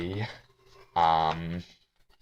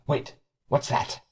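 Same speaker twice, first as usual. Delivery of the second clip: alarmed whisper; 4 semitones higher than usual. Acted. Sudden alarm, cut off.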